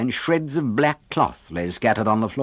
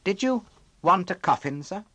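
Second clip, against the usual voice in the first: put-on higher, softer, innocent boy asking; innocently; 9 semitones higher, 3 dB quieter than usual. A narrator's reading. Oliver innocently asks the charity boy, higher and softer. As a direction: ask with guileless politeness. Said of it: "inquired Oliver innocently".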